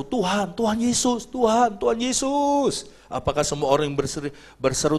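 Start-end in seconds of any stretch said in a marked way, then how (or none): 0.0-2.9 slow, higher mock cry to Jesus. Believers crying out to Jesus, mock pleading. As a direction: call out to the Lord. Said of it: "Kita semua berseru".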